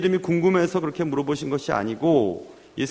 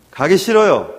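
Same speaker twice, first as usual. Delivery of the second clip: louder, stubborn protest from a son; insistent refusal; 7 dB louder than usual. Acted. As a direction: dig in and refuse, voice raised. Son refuses church again, acted. (고집스럽게 싫다고 버티는 말투)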